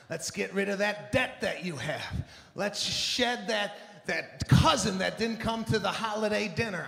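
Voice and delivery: lightly voiced, too-happy spin instructor; pep up the class like a cheesy coach; mock positive teacher. A hint of an over-happy instructor pumping up the class. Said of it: "real positive teachers".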